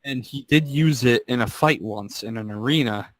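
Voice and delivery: usual speaking voice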